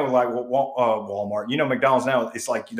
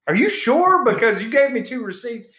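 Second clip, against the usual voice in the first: tag; 8 semitones higher than usual. Retold or imitated. Acts out his doubtful question back.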